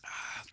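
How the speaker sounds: slurp the tea, then a satisfied ah; slurping sweet tea. Real, not acted. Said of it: "sorry for the slurping".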